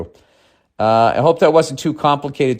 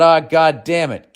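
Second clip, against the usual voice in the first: slow, a bit high Southern grumble; Southern accent; 4 semitones higher, slower than usual. Retold or imitated. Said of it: "And I thought".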